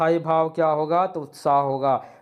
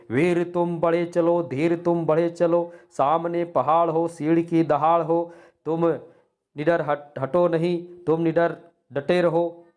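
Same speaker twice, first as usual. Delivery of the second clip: spirited verse recital; 3 semitones higher than usual. Shown as a demonstration. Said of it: "हमारे मन में उत्साह आता है".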